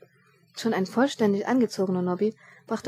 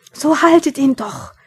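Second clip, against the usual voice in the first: loud, high, drawn-out plea to bystanders; frustrated calling out, stretched slow; exasperated shout; 6 semitones higher, 11 dB louder, slower than usual. A narrator's reading. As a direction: yell it, urging idle onlookers to act. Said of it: "versuchte er es noch einmal".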